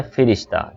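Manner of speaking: फिरिश्ता as fi-rish-taa, short i twice; correct pronunciation demo. Shown as a demonstration. Teacher giving the right form, careful demo of फिरिश्ता as fi-rish-taa. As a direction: sound out फिरिश्ता with i after f and r. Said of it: "ये इसका pronunciation होता है".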